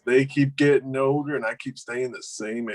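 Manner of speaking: lightly done southern drawl. Shown as a demonstration. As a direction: deliver it with a slight southern drawl. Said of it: "Southern drawl".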